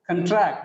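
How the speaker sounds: "contract" as a verb, conTRACT; stress on second syllable. Shown as a demonstration. Teacher repeating the verb "contract", stress on TRACT. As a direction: weaken the first syllable of "contract" and hit TRACT. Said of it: "because the stress is on second syllable".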